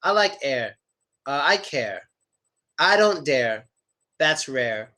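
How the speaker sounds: "air", "care", "dare", "rare" with slight final R; light R, tongue relaxed, on "care"; little R. Shown as a demonstration. Teacher reassuring students a little R is okay. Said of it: "just give it a little R sound".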